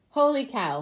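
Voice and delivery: loud holler; hollering cook. Acted. Cook hollers at the passing duck. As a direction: holler it across the diner. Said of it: "hollered Manny the cook".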